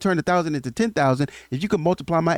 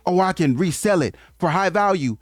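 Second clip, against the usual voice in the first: mock excuse. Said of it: "quoting the bag buyer".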